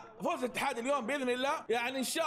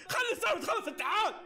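urgent plea; 9 semitones higher than usual. Real, not acted. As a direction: push the team to finish it. Repeats the plea louder.

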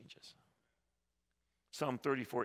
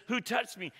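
Jesus asking; 11 semitones higher, 6 dB louder than usual. Retold or imitated. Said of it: "he turns and he says".

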